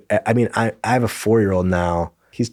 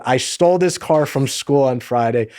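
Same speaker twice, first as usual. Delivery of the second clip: put-on small boy's grown-up declaration, mildly raised; loud adult voice; 2 semitones higher than usual. Shy son apologizing to his teacher, lightly imitated loud adult voice. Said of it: "loud, adult voice".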